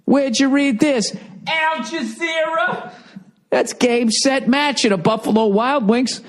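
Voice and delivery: very high, squeaky outraged pitch; incredulous mock rant. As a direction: climb into shrieky disbelief, goading them on. Mock-goading media to build a scandal.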